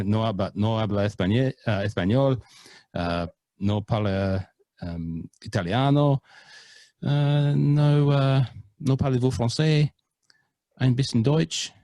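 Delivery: hammed-up tourist Spanish, Italian, French and German; playful multilingual showing off; mock foreign phrases. Shown as a demonstration. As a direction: show off each language with a put-on accent. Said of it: "pride myself on my international pronunciations".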